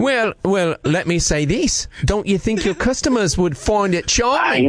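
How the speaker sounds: put-on Australian accent. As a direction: fake Aussie prank caller. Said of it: "With an accent from New Zealand".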